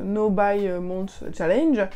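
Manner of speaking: No Buy Month Challenge said slowly in a heavy French accent; French-accented English. Real, not acted. Booktuber mocks her own English: slow, heavy French accent. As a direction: lean into a clumsy French accent on the English words. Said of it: "mon superbe accent anglais".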